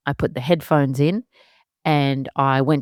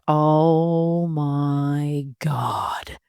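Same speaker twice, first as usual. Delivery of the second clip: amazed realisation; much slower than usual. Retold or imitated.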